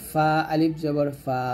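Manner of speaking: slow spelling, ফা held long; teeth-on-lip madd. Shown as a demonstration. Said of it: "উপরে দুই দাঁত নিচে ঠোঁটের পেটে".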